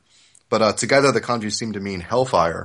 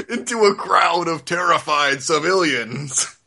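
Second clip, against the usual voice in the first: dramatic trailer-announcer read, breaking into laughs; mock epic voice-over, barely holding it together; hammed-up blurb voice; 4 semitones higher than usual. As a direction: sell it like an over-the-top back-cover blurb. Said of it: "Do, do the voice".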